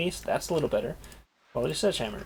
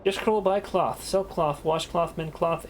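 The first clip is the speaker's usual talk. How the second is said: monotone spiel; 4 semitones higher than usual. Acted. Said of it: "delivered in the same flat monotone".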